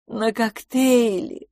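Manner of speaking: slow, dreamy, sighed out; blissful sigh. A narrator's reading. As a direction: savour the words like a treat. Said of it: "блаженно вздохнула". (блаженно, медленно, на выдохе)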